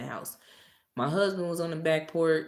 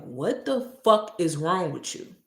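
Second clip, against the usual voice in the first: retold cursing out; 4 dB louder than usual. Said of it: "Yes, I cursed her out".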